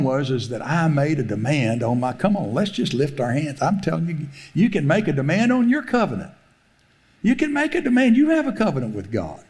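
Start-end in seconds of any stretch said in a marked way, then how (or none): 3.6-9.4 rising exhortation. Acted. Preacher urging the congregation to claim their covenant, building fervor. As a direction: preach it with mounting force.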